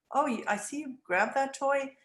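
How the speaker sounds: neutral, gentle observing tone; just name what the child did, no blame; non-judgmental. Shown as a demonstration. Parent to toddler grabbing a toy, calm and non-judgmental. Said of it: "in a non-judgmental tone".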